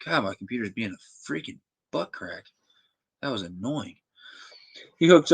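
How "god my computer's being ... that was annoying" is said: annoyed outburst. Real, not acted. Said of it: "Sorry, I got mad".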